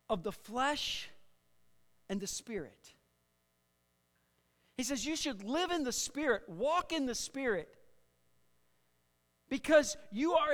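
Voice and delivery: emphatic, measured sermon delivery; projected pulpit teaching voice; preaching. Real, not acted. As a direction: preach it with weight on the key words. Preaches on flesh and spirit.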